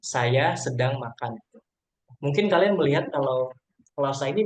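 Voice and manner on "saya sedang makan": slow example read. Shown as a demonstration. Teacher reads example clause slowly to students. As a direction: read slowly, word by word, without final intonation.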